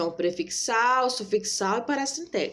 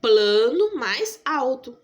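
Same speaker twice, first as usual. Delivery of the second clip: slow, split words; 3 semitones higher, 4 dB louder, much slower than usual. Shown as a demonstration. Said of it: "Que duas palavras".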